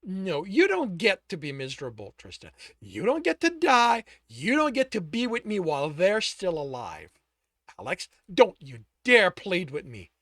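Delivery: loud, high and hard; furious demand of the grieving lover; raging demand. Acted. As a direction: drive the vengeance home.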